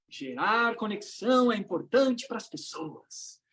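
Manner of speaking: slow, measured group-recitation delivery; audience repeating along. Acted. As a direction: draw it out like a crowd reciting. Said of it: "Aí todo mundo repete aquela frase".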